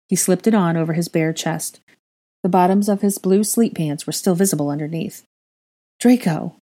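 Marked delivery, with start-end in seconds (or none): 6.0-6.6 worried. Acted. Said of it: "Hermione worried".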